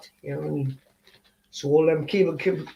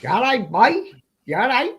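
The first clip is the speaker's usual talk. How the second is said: put-on other British accent; 4 semitones higher, 4 dB louder than usual. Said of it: "any other British accents".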